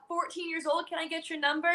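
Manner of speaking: mock-suave little flirt. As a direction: shoot your shot, softly and coolly. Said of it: "Like, the most suave".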